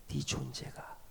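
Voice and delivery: low, whispered comfort; tender whisper. Acted. God whispering comfort to a struggling sinner. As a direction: whisper it like a loving father.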